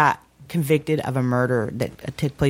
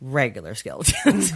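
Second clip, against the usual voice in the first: chuckling through the words; laughing. Real, not acted. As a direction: say it while laughing. Joking about partner's past.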